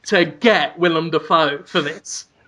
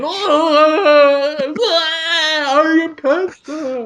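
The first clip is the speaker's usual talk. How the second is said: high, stretched-out mock scream; screaming cancer monster; 8 semitones higher, much slower than usual. Living cancer hits the walls of the bucket, mock screaming. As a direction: wail it slowly like a creature hitting the walls. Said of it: "so the cancer is screaming".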